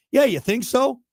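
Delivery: loud, high mock-amazed scoff; sarcastic. Real, not acted. Host mocking a player's bland quote with loud sarcastic scoff. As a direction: roll your eyes at the obvious.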